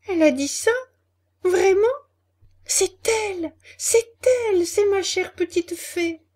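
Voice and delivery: high, loud rising wail; wailing, sobbing. A narrator's reading. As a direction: cry out in grief for the fairy. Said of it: "commença à hurler Pinocchio, en pleurant".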